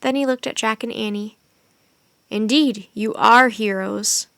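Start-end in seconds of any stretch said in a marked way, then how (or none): 2.3-4.3 breathless. Acted. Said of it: "he said breathlessly".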